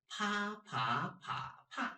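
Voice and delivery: "pa" level, rising, dipping, then falling; four tones. Shown as a demonstration. Teacher repeats the drill on pa, level, rising, dipping, falling. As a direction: run "pa" through four pitch shapes. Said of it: "this one, the same".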